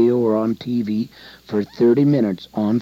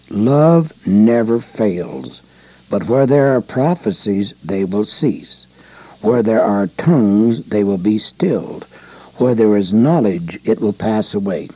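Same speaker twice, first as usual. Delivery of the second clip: measured pulpit reading; scripture reading. Acted. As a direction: read the verse solemnly, giving it weight. Reads scripture aloud.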